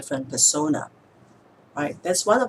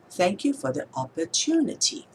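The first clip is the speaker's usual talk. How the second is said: "opportunity" with a lifted "tu" inside the sentence; stress on third syllable. Shown as a demonstration. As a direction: build momentum towards "tu" in "opportunity". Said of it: "adding a little bit of momentum to the word".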